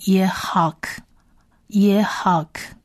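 耶哈克 sounded out, ending on a released k; syllable-by-syllable demo. Shown as a demonstration. Teacher building the Hebrew word, 耶哈克 in careful syllables. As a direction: spell out 耶哈克 by syllables, closing on k. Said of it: "所以它会变成".

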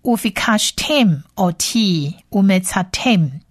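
Ufikashtem oti umetzatem read slowly, word by word; whole-phrase model reading. Shown as a demonstration. Teacher reads the whole line for learners, slow Hebrew demo. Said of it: "我们来整体念一次".

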